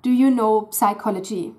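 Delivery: "psychology" with a sounded P and ch for the j, Southern German accent; mock Southern German asking Do you know psychology. Shown as a demonstration. Teacher mimics a Southern German's accent on psychology. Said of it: "you're very likely to get the pronunciation".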